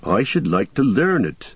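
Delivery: homely companion with a rising lilt; Sam, admiring. Acted. Hobbit praises the dwarf's chant, simple admiration.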